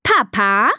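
lightly voiced little elephant asking; questioning toot. Elephant daughter prompting Papa, questioning toot. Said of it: "trötet Dina fragend".

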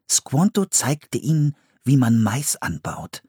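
put-on a boy reading facts carefully, slowing at the end; reading aloud. Philipp reading the guidebook to Anne, studious.

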